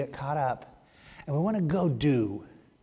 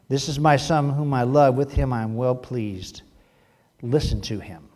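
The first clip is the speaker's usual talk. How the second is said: lower, solemn divine voice; voice of God; 5 semitones lower than usual. Acted. God speaking from the cloud, low and solemn.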